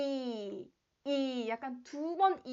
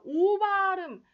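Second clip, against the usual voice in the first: loud, slow, drawn-out emphasis; emphatic; 7 semitones higher, 11 dB louder, much slower than usual. Shown as a demonstration. Teacher stressing the missing o sound. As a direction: lean hard on this point. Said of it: "중요한 게요".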